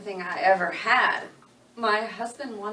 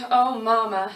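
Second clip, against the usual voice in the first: breaking on a louder sob; shaky sob; 6 dB louder than usual. Acted. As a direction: cry out for her dead mother. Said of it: "her shoulders shaking".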